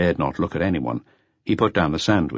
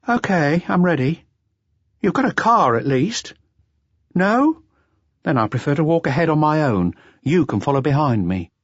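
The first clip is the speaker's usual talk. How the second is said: higher, resentful woman's voice, slowing at the end; indignant dancer; 9 semitones higher than usual. A narrator's reading. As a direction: spit out the grievance in her voice. Adele voiced by narrator.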